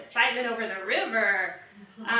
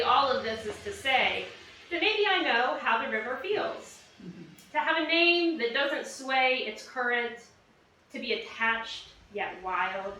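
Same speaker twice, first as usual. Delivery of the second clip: deliberate spoken-word reading with pauses between phrases; poem recital. Acted. Poet reading her river poem to an audience, measured recital. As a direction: recite it line by line, letting endings drop.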